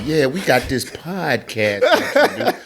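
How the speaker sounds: slow mocking pitch of the podcast; imitating young men. Man quoting the young podcasters' approach to him, slow mimicry. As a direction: mimic their request, drawing it out. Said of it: "young niggas come to me talking about".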